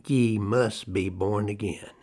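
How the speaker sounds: slow, measured emphasis on "Ye must be born again"; "Ye must be born again" weighed out slowly, falling at the end; emphatic. Retold or imitated. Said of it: "There is only an emphatic".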